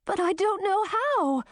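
high, despairing wail. A narrator's reading. Grisina to the Vila, wailing in despair. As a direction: cry it out helplessly. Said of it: "wailed Grisina".

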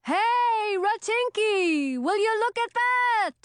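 high, loud, excited witch; loud young witch. A narrator's reading. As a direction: shout it across the sky. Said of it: "in a voice so loud".

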